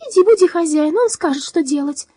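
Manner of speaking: high metallic giant voice; high robot voice. Acted. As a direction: order it in the high voice. Drom gives orders.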